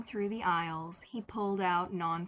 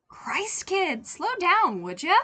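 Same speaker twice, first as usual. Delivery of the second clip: put-on loud, slow scold to a kid; gruff scolding; 10 semitones higher, 10 dB louder, slower than usual. A narrator's reading. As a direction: tell the kid off, worried. Older lady scolds choking kid.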